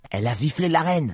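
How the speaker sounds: high-pitched rabbit voice; nervous rabbit. Acted. Nervous rabbit reveals the offence.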